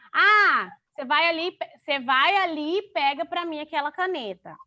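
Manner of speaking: slangy everyday Portuguese, "você vai ali"; casual slang. Shown as a demonstration. Teacher shows her slang, casually said. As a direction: toss it off casually like chatting at home. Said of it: "tipo assim, que é gíria".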